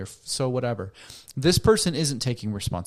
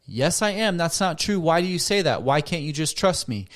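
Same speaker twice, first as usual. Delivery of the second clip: defensive protest; 5 semitones higher than usual. Acted. Partner denying the accusation, defensive and raised. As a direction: push back, hurt and defensive.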